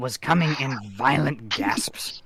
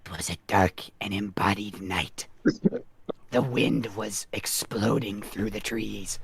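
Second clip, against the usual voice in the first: mock spooky; 4 semitones lower, 6 dB quieter than usual. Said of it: "Should I try to read this in a spooky voice?".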